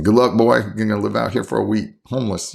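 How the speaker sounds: playfully hammed-up tough-love send-off; mock tough dad.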